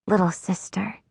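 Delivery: soft, tender call to her little sister; softly. A narrator's reading. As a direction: say it gently to comfort her. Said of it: "I say softly".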